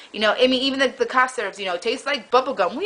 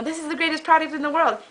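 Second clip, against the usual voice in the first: lightly hammed-up salesman boast, pitched higher; mock sales pitch; 4 semitones higher than usual. Marketer shouting from the rooftop, mock salesman boast. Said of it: "they shout from the rooftop".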